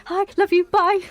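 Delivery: rushed excited. Retold or imitated. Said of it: "and I was like".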